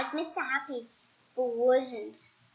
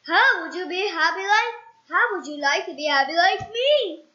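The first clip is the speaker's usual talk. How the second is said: higher, louder friendly offer; cheerful Mister Happy; 4 semitones higher, 5 dB louder than usual. Acted. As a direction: invite him brightly.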